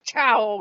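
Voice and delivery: sudden loud imitated cat attack; loud, playful swipe effect; cat swipe noise. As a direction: punch out a swiping cat sound. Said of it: "when your cat comes over and goes".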